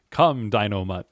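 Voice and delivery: hint of a cartoon hero, breaking into laughter; the Falcon. Narrator quoting his first rap lyric, lightly voiced superhero. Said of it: "I could do the voice".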